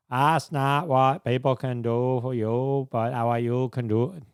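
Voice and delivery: lightly voiced presidential impression; a so-so attempt at imitating a famous politician's oratory; JFK. Host jokingly breaks out an imitation after praising an album, half-hearted JFK. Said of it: "break out your own J F K imitation".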